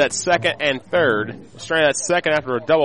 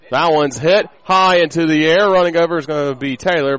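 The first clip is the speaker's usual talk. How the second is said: excited call; 4 semitones higher, 5 dB louder than usual. Real, not acted. Ball hit high, live call.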